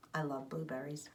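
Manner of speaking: soft whispered secret; whispered confidence. Real, not acted. Teacher closing to class.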